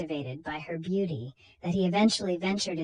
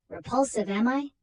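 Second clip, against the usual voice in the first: higher, bitter sneering retort; offended villain; 6 semitones higher, 3 dB louder than usual. Acted. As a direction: spit back the insult.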